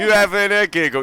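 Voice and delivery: full Cockney. Shown as a demonstration. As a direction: go full Cockney on "You having a giggle?", dropping the h in "having". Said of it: "You've got to go full Cockney".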